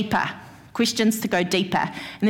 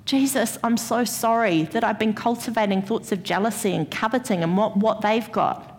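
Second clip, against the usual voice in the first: confessional prayer. Shown as a demonstration. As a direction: pray it gently, asking forgiveness. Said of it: "the key is confession".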